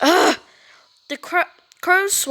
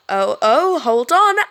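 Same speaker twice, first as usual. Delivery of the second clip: eager glee; 6 dB louder, slower than usual. Acted. Cody eager to film fight.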